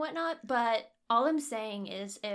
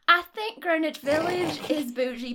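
slow, louder put-on New York accent; 3 semitones higher, 5 dB louder, slower than usual. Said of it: "start talking like this".

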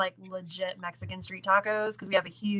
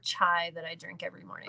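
whispering; 5 semitones lower, 8 dB quieter than usual. Real, not acted. Trailing off about morning chai.

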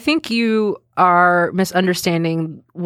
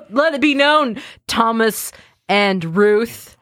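mock proclamation; 3 semitones higher, slower than usual. Mock proclamation to holiday creators.

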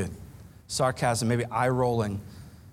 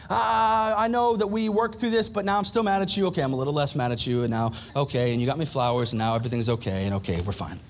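mock wife cooling off; 3 semitones lower than usual. Preacher imitates a wife coming down from anger, fading. Voicing wife calming down slowly.

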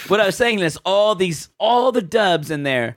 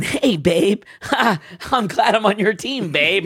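mock flirty dub voice; 2 semitones higher than usual. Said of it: "she immediately starts going".

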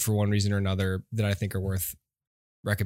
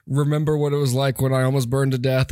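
dramatic flashback voice; 4 semitones higher, 4 dB louder than usual. Pretend. Mock flashback quote of hero.

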